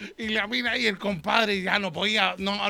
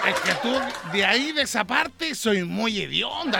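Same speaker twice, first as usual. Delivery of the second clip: laughing blunt verdict. Acted. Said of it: "le digo".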